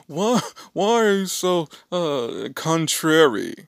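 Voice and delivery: high, loud retold challenge; mock questioning. Acts out brother's question.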